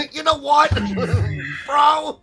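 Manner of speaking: high loud voice cracking into laughter; laughing Grim voice. Retold or imitated. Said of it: "I can see Grim just being like".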